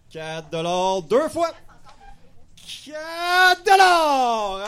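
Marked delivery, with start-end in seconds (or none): 2.8-4.6 loud, slow closing call; slow announced sale. Real, not acted. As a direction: proclaim the winning bid slowly. (annonce lente et forte de la vente)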